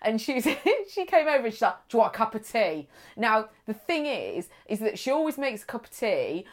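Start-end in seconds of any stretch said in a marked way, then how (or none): 1.9-2.9 imitating a Cockney woman; lightly voiced Cockney offer. Woman at slimming group offers tea, Cockney. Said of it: "She's very Cockney".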